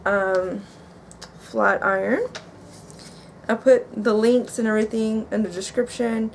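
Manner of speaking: talking around gauze after tooth extraction; gauze in mouth. Real, not acted. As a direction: speak with gauze packed in your mouth. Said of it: "sorry if I'm talking a little bit weird".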